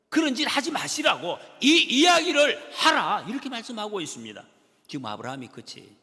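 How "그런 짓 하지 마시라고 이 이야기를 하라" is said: loud, high and slow exhortation; preaching shout. Acted. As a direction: drive the command home from the pulpit.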